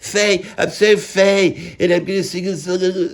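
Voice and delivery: hammed-up fey, tearful singer; rock singer impression. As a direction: wail feebly as if about to sob. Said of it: "it's like he's crying".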